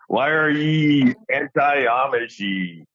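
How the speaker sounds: slow, drawn-out pirate Amish talk; hammed-up old Amish pirate. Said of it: "I sort of sound like a pirate".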